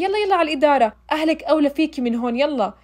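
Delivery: mock-shout her off to the office; retold yelling. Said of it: "وصارت تصرخ علي".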